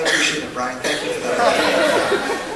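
preacher laughing off an interruption from Brian; laughing thanks. Real, not acted.

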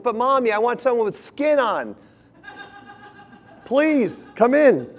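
put-on high, begging child's voice; the girl begging her mother to come in; pleading little girl. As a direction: plead like a small child wanting her mom. Child pleading again in story.

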